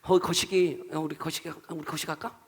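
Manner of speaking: Jeolla-style dialect, soft and offhand; regional Korean dialect. Shown as a demonstration. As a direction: toss it off softly in regional dialect. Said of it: "우리의 말로 이렇게 알 수 있잖아요". (구수한 사투리로 작게)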